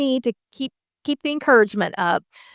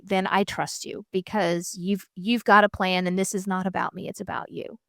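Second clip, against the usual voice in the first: surrendering hush; 2 semitones lower, 6 dB quieter than usual. Retold or imitated. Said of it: "But I'm just like".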